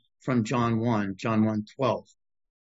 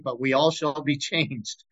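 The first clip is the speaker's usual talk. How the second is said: a small laugh breaking into the verse; amused laugh. Real, not acted. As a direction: chuckle just before the last word. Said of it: "I always laughed at that".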